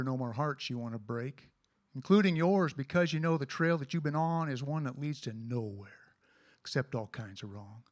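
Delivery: cowboy poem recitation; cowboy poetry. Acted.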